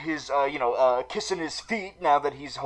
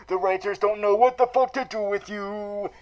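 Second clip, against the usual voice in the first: ordinary talk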